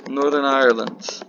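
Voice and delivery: slipping into a Northern Irish accent; a touch of Northern Irish accent. Real, not acted. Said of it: "my voice gets into the accent".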